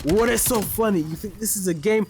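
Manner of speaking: high-pitched mock fury; imitated angry outburst. Recruiter blows up at a laughing recruit, imitated fury. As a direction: retell him going nuclear, voice jumping up. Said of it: "He went nuclear".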